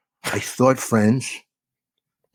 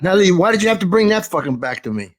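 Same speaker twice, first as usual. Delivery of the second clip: higher-pitched complaint; comic exasperation at an old slight; mock grievance; 4 semitones higher, faster than usual. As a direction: play up the wounded protest. Comic mock-quarrel over retold slight.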